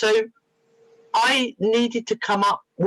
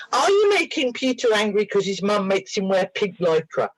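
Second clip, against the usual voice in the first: retold playful questioning of a little creature; talking to tiny creature; 3 semitones higher than usual. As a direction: lightly coo a silly question. Second silly question to tiny creature.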